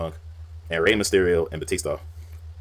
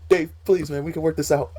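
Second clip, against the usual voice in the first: higher, louder begging whine; mock pleading Rey; 11 semitones higher, 4 dB louder than usual. Imitating Rey Mysterio begging Batista not to hurt him. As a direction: plead for mercy in a squeaky voice. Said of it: "Rey was like".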